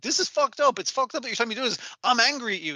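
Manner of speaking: hammed-up angry complaint; mock pissed off. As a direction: whine it out like a betrayed friend. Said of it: "Begensky is so pissed off".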